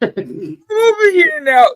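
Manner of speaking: loud, slow, high call across the room; stretched-out call to someone across the room. Real, not acted. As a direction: call out so they hear you from afar. Calling out from far away.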